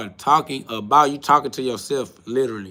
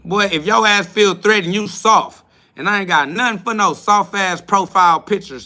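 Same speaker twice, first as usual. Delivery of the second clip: raised-voice put-down of a viewer; scornful shout; 4 semitones higher, 5 dB louder than usual. Real, not acted. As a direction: belittle him loudly. Mocking a troll's complaint.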